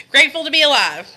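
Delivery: laughing through the words; grateful, with a laugh in the voice. Real, not acted. Livestreamer laughing as she greets viewers.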